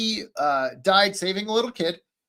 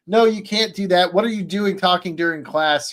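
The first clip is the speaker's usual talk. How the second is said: lightly voiced scolding parent; touch of firm reproach, slightly raised; 3 dB louder than usual. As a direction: imitate a parent telling off a pupil. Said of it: "like, a firm parent rather than a villainous".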